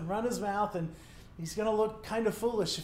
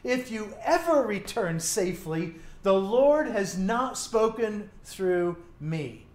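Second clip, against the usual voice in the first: sarcastic. Acted. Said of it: "hear the sarcasm in this prophet's voice".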